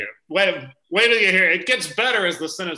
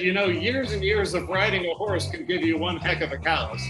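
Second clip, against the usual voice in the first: cowboy voice. Acted. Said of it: "Mesmerized by the accent".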